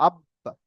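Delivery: আব্বা with the ب held, then released in a short echo; qalqalah bounce. Shown as a demonstration. Teacher showing students qalqalah, আব্বা with a bouncing b. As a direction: close on the b of আব্বা, then let it bounce lightly. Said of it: "পুরোপুরি বা উচ্চারণ হবে না".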